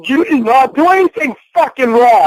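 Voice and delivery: yelling. Real, not acted. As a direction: yell it at her, slowing down. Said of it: "I'm not yelling".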